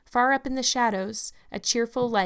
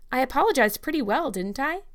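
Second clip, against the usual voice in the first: proud; 5 semitones higher, 4 dB louder than usual. Acted. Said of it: "she said proudly".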